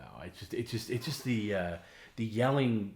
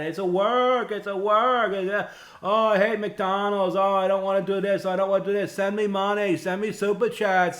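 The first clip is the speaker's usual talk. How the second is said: much higher, much louder ranting comic rant voice; Kevin Brennan impression; 12 semitones higher, 9 dB louder than usual. Comedian mocking a host ranting on stream, high loud tirade. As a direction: rant at the world like an outraged shock-jock host. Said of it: "that's my Kevin Brennan impression".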